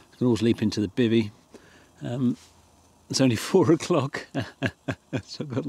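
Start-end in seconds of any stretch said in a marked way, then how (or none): 3.1-5.7 chuckling through the words; laughing. Real, not acted. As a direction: laugh while you say it. Laughs at early hour.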